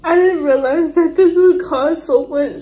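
choked up, struggling to speak; overwhelmed with emotion. Real, not acted. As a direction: blurt it out through tears. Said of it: "I can't even speak right now".

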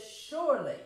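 "Surely" preached with force; stressed Surely. Shown as a demonstration. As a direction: hit "Surely" hard. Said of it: "It's a sure thing".

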